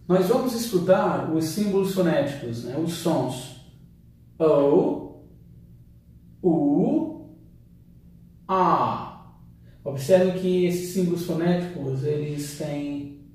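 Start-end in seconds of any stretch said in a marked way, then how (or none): 4.4-9.3 O, U, A each held long; drawn-out vowel sounds. Shown as a demonstration. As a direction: stretch every vowel out. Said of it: "o som é mais longo".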